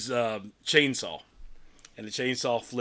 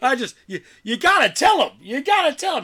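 laughing mock plea; 13 semitones higher, 8 dB louder than usual. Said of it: "He's like".

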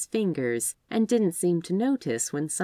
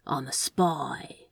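slow, earnest and softer; sincere; 2 semitones lower, 3 dB quieter, slower than usual. Acted. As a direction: say it with utter sincerity. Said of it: "with utter sincerity".

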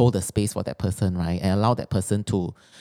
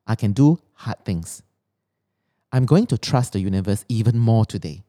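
affirmation reading. Acted. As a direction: read each line like a mantra. Reads her written affirmations.

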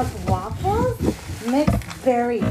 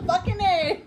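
laughing; 6 semitones higher than usual. Retold or imitated.

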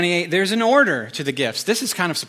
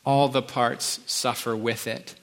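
slow, deliberate reading of the verse; slow scripture reading; slower than usual. Shown as a demonstration. Pastor reading a beautiful passage to the congregation, slow and deliberate. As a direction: let each phrase land slowly. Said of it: "Listen to this beautiful passage".

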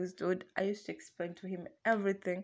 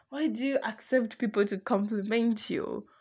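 mock jealous boyfriend; 3 semitones higher, 6 dB louder than usual. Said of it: "he got pissed".

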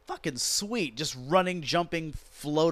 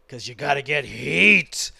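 mock shout; 8 dB louder than usual. Sarcastic mock wrestling wisdom.

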